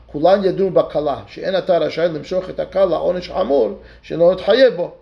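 fast, rattled-off recitation of the text; fast Talmudic study chant; rapid text reading. Acted. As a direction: race through the quoted passage. Rapid reading of Hebrew commentary.

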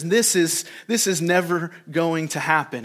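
a touch of brash certainty; lightly voiced bold denial; bold protest. Loudmouth disciple refusing Jesus's prediction, bold protest. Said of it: "Loudmouth, bold Peter".

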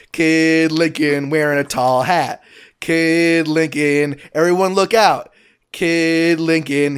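slow, drawn-out show pitch like a promo voice; trailer announcer. Shown as a demonstration. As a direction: sell the cartoon like a movie trailer.

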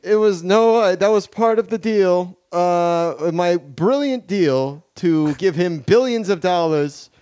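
put-on a light Queens-accented politician; smug dealmaking governor; Andrew Cuomo. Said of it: "Governor of New York State".

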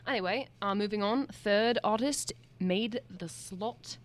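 a put-on British accent, lightly done; host a show in a mock-British voice. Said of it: "should I keep going in my accent?".

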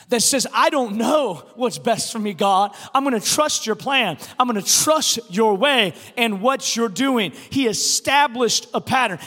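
loud, driving pulpit delivery; impassioned, emphatic sermon cadence; forceful preaching. Real, not acted. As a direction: drive each phrase home to a congregation.

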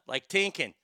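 "Tinkin" with a hard T for TH. Shown as a demonstration. Host teaching Irish accent, "Tinkin" with T for TH. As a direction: say "Tinkin" for thinking, Irish style. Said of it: "forget pronounce your, the T H as tuh".

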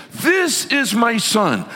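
high, slow, booming proclamation; thunderous God. Acted. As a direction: thunder it out like a monsoon, drawing out each word. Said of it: "like, monsoon thunder voice".

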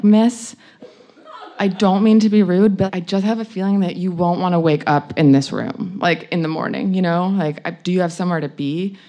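mildly gentle, imitated polite nudge. Man waking her to leave, imitated gentle tact. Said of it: "being really gently, just being like".

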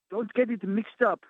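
indignant woman. Retold or imitated. Women quoted scolding them.

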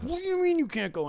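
very high furious yell; screaming. Retold or imitated. Angry concertgoer keeps yelling at blocking driver. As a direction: shriek it in disbelief. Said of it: "I'm screaming at him".

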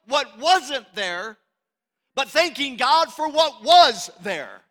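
emphatic, high-pitched sermon delivery; full-force preaching. Real, not acted. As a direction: drive the point home to the congregation.

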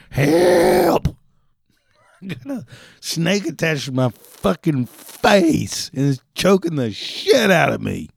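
high, loud frantic screaming for help; panicked call for help. Acted. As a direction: yell it like something's strangling you. Frantic 911 call, snake on face.

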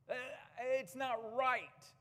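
high, slow and emphatic, each word pressed; indignant. Real, not acted. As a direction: let the outrage rise and drag the words out. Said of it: "and it angers me".

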